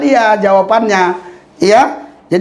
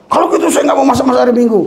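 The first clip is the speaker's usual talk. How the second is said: sulky wife quote; 5 semitones higher, much faster than usual. Retold or imitated. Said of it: "dia bilang".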